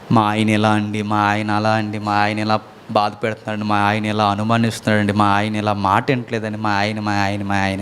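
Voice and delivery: low, soft whimpering complaint; mock crying wife. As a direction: lightly imitate a weeping wife. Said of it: "అని చెప్పింది ఏడిసి". (ఏడుస్తూ మెల్లగా చెప్పే భార్య)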